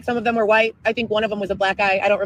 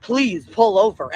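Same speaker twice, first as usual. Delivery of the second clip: robot voice; 4 semitones lower, slower than usual. Retold or imitated. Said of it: "And it's like a robot voice".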